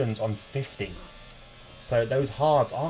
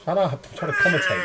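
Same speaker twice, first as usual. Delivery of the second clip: higher, fast, annoyed outburst; irritated snap; 5 semitones higher than usual. Real, not acted. Commentator snapping at the noisy kid, irritated. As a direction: shut the interruption down quickly.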